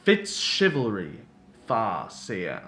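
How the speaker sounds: slow, lightly grandiose self-introduction; pompous captor. Acted. Captor introduces himself to prisoner, pompous. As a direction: announce your name with mild grandeur.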